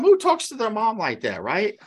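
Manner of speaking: usual speaking voice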